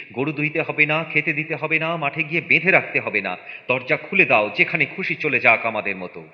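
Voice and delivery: urgent, high-pitched urging; excited hurrying. Acted. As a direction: hurry everyone along as the chores pile up. Wife hurrying, listing chores now dropped.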